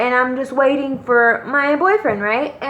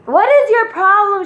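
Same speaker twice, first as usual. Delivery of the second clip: high-pitched mock angry yell; retold yelling; 8 semitones higher, 4 dB louder than usual. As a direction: imitate a friend yelling at a creep, pitched up. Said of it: "She starts yelling at him".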